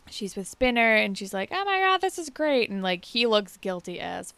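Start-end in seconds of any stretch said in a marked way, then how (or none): 1.5-2.7 much higher, louder mock gush; imitating gushing Paige. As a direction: squeal it like an oblivious cheerleader.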